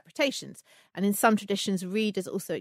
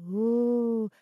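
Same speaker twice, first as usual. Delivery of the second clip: slow, loud mystic fortune teller; 2 semitones higher, 5 dB louder, slower than usual. Pretend. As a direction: lure her in like a fairground seer. Playful fortune teller act.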